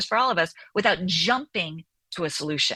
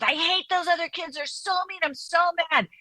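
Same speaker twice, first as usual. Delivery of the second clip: higher, childlike mock tantrum; upset young child; 8 semitones higher than usual. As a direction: play a little kid upset about the other kids. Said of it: "your young child comes running to you in a blaze of emotions".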